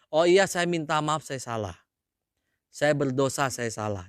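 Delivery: humble apology. Acted. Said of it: "mestinya jawab apa?".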